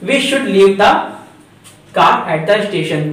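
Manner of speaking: reads the English sentence out very slowly; slow dictation read. Shown as a demonstration. Teacher to students, reading the rewritten sentence very slowly. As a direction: spell each word out for the class. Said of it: "तो".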